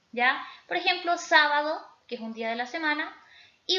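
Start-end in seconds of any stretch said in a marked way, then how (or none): 1.2-1.9 "sábado" with force on the opening "sá"; stress on antepenultimate syllable. Shown as a demonstration. Teacher giving an example of an esdrújula, antepenultimate-syllable stress. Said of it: "la antepenúltima sílaba".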